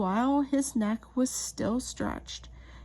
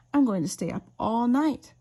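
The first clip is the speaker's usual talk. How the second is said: excited chick; 7 dB louder than usual. Acted. Chick boasting.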